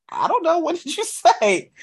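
high, squeaky mock British accent. A singer mocking the UK interviewer in a high British accent. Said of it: "emulate what he was saying in his accent".

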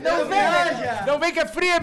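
high, slow, drawn-out warning. Retold or imitated. Narrator warns his friend away, high and slow. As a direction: wave him off slowly.

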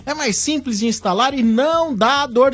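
upbeat radio ad delivery; ad read. Acted. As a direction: sell it like a radio spot. Ad read on air. (leitura de comercial)

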